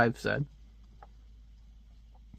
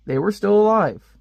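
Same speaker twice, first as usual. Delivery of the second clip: mock amazed; 6 semitones higher, 4 dB louder than usual. Shown as a demonstration. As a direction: still punched high and loud. Rereading a surprising fact.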